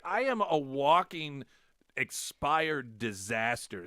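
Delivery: high, loud and slow mock despair; exasperated exclamation. Telling the clerk, self-mocking loud despair. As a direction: wail it out as a self-mocking complaint.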